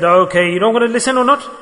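gently but firmly ask if she will listen; nice but firm. Retold or imitated. Husband to his crying wife, nicely and firmly. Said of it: "Nicely and firmly".

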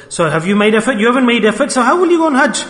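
rising, insistent challenge; challenging questioning. Acted. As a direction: pitch climbing with each question. Father challenges daughter in story.

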